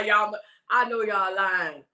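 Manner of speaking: slow, laughing through the words; slow amused laughter. Retold or imitated. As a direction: laugh while saying it. Laughing while quoting.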